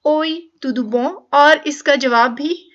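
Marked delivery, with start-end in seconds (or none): 0.1-1.1 "Oi, tudo bom?" very slow, "bom" ending nasal; slow nasal demo. Shown as a demonstration. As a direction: hold the nasal "bom" at the end. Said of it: "नून गुना का sound ही देगा".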